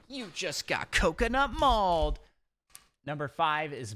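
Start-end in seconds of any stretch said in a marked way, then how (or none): 0.1-2.2 high, loud gleeful punchline; hyped pun. Acted. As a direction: deliver the pun with a gloating jab.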